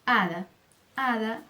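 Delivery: "hada" starting straight on the vowel, "ada"; silent H. Shown as a demonstration. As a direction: drop the H entirely in "hada". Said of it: "ela não tem som".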